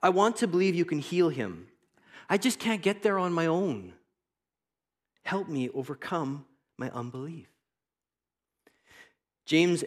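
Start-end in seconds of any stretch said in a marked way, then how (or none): 0.0-7.5 blurted confession. Acted. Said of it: "the father blurts out an honest and humble confession".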